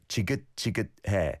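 지긋지긋해 with the 시옷 받침 cut off hard in the back of the throat; throat-closed final. Shown as a demonstration. Host models the bottom consonant for listeners, clipped in the throat. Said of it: "a sound in the back of your throat".

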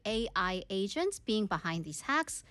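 measured, slow newsreader delivery; news read. Acted. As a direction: read it as a radio news bulletin, slow and clear. Reads the news story in English.

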